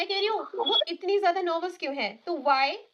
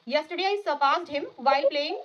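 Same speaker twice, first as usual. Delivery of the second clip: slow model sentence; much slower than usual. Shown as a demonstration. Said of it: "आपको उस खेल को add करके बोलना है".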